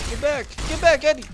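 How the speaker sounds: real shout. Real, not acted. Yelling at game character Eddie.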